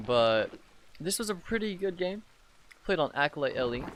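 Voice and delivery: sick, scratchy voice; talking through a sore throat; hoarse sore throat. Real, not acted. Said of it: "if I do sound, um, like a dying cow".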